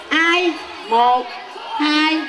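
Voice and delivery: normal talking voice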